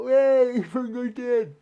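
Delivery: high, loud imitation of an irate man; mock outraged yell; angry farmer. Guy comes out to the mayhem, mock angry yell.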